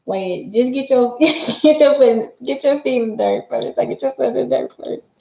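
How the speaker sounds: slow, drawn-out "get your foot in the dirt first"; slow reading. Retold or imitated. Reading a chat message aloud, slowed and amused. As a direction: read it slowly, chuckling through it. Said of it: "I be like".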